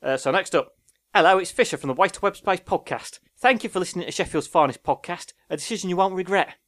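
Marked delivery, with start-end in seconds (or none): 1.1-6.6 pitched-up Cockney patter; Cockney accent. Shown as a demonstration. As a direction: read it like a London Cockney. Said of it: "It's a Cockney accent".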